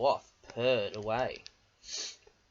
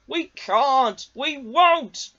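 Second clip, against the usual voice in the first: high, loud defiant chorus; stubborn trucks; 12 semitones higher, 10 dB louder, much slower than usual. A narrator's reading. Trucks defying Diesel, high and loud. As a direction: refuse again, louder.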